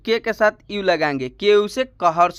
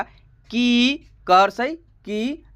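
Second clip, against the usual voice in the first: slow spelled-out syllable; 3 semitones higher, much slower than usual. Shown as a demonstration. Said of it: "इसका उच्चारण change होकर के कुछ इस तरीके".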